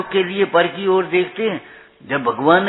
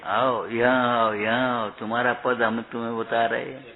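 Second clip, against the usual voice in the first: soft beckoning, a touch lower; coaxing call; 4 semitones lower, 4 dB quieter than usual. Retold or imitated. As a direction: coax like calling a child over. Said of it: "पुचकार करके कह रहे हैं".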